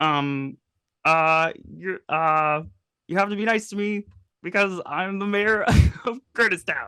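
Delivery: high, halting, stumbling frog puppet voice. A guest finally does the impression of the show's host, impression of the host. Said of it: "Is this a Kermit?".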